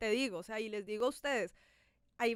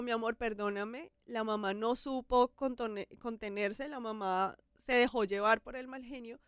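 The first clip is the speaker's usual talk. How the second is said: tender apology. Retold or imitated. Mother apologizing to her daughter.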